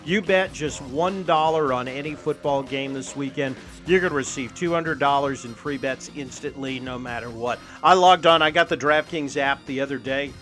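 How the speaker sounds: upbeat radio ad read. Acted. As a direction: sell it like a sponsor spot. Host reads sponsor ad.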